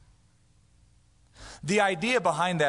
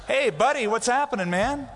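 high, loud friendly hello; upbeat hey buddy; casual buddy greeting; 9 semitones higher, 4 dB louder than usual. Retold or imitated. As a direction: greet a pal easily. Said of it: "I just".

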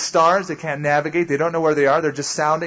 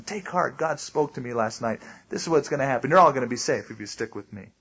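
softer, lower, steady voice; calm reassurance; 3 semitones lower, 4 dB quieter than usual. Acted. Paul to frightened shipmates after God spoke, calmly reassuring. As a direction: quietly assure them all is in hand.

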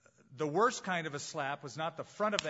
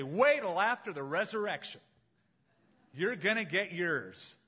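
raised, louder, hammed-up threat; mock vengeful threat; 4 semitones higher, 4 dB louder than usual. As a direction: pretend revenge vow from the cross. Mock vengeful Jesus on cross.

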